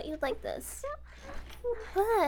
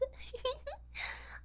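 creepy giggle; 11 semitones higher, 11 dB quieter than usual. Acted. Creepy giggle after remark.

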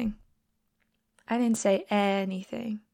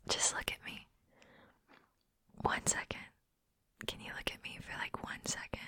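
ASMR whisper; 14 dB quieter than usual. Acted. Coaxing a shy friend to meet her eyes, whisper. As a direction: soothe them close to the ear.

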